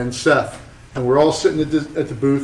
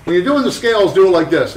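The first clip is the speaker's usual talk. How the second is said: higher, instructive mentor voice; imitating Mike Malone; 5 semitones higher than usual. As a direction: show the kid how it's done. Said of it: "He goes".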